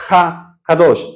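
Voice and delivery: "Ha Kadosh" said slowly; Hebrew term. Shown as a demonstration. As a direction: draw out "Ha Kadosh" carefully. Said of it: "Nosotros en español decimos". ("Ha Kadosh" pronunciado despacio)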